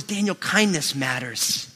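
soft, slow and gentle, like a wife reminding her husband; Lynn's gentle voice saying kindness matters; gentle reminder. Retold or imitated. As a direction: say it softly, with a slow, tender lean on kindness. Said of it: "Lynn always says".

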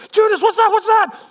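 high, loud, startled questions; urgent panicky alert; alarmed. Acted. Fisherman tapping Judas about a shape on the water, alarmed.

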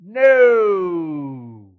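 loud shout across the water; yelled back. Acted. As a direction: bark a reply to the shore. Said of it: "One of us yelled back".

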